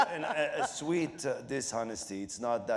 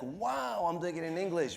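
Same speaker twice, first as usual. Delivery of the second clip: amazed; 6 semitones higher than usual. Retold or imitated. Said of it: "For me, it's like".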